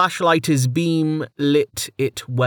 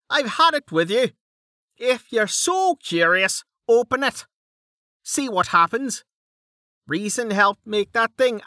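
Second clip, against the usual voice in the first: much higher, exasperated rant; Dell, fed up; 11 semitones higher than usual. Acted. Dell loses patience with Mig, a much higher exasperated rant.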